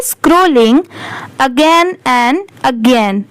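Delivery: very slow, word by word English reading; slow read-aloud. Shown as a demonstration. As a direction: read each word out slowly for learners. Reads the story aloud slowly. (धीरे-धीरे शब्द-शब्द पढ़ना)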